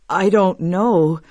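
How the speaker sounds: slow, uneasy husband; a touch of fear, drawn out; afraid. Acted. Husband answering his frightened wife, mildly afraid. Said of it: "just as afraid".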